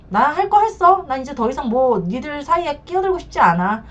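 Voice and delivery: wash your hands of it, as an exasperated relative; imitating dismissive in-laws. In-laws refusing to get further involved, imitated exasperation.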